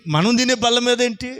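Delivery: mild mock indignation on తినే; indignant question. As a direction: ask it as an outraged wife. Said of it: "repeated as indignant question".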